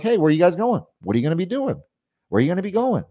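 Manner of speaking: quick, straightforward sales questions; sped up. Shown as a demonstration. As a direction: speed up for a busy customer. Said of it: "I'm gonna speed up for them".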